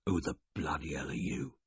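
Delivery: whispered croak, rough and soft; a hungover rasping whisper; croaking whisper from the hay. Acted. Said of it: "but a croak".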